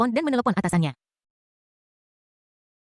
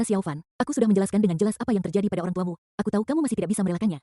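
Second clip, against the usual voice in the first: sighing; 3 semitones lower than usual. Acted. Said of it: "Hu yang menghela napas dan berkata".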